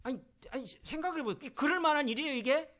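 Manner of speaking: high, loud rising plea to the congregation; impassioned preaching. Real, not acted. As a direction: press them hard for an answer, voice climbing. (회중에게 대답을 재촉하는 열띤 설교)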